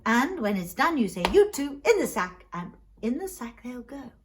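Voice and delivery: swooping, cheery explanation; jovial Mister Frost. Acted. Mister Frost offering the poor man a sack, jovial. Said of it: "jovial, actually".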